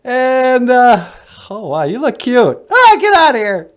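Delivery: very high, loud squeaky alien. Acted. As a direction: greet him like a tiny cartoon alien.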